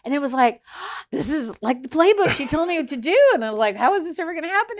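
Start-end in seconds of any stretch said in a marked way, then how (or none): 1.1-3.2 retold tearful outburst. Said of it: "it just exploded tears". 3.8-4.8 high, loud hammed-up crying voice; mock tearful wail. Crying in the meeting just as her attorney advised, mock high wail. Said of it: "And I'm crying".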